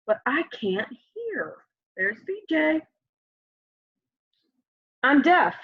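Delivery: gentle storybook reading voice; lively picture book read-aloud; reading to children. Acted. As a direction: read it aloud like story time for little kids.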